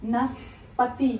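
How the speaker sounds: very slow and soft, syllables far apart; slow enunciation. Real, not acted. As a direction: stretch each part out quietly for the guesser. Repeats word slowly for guesser. (খুব ধীরে, আস্তে ভেঙে ভেঙে)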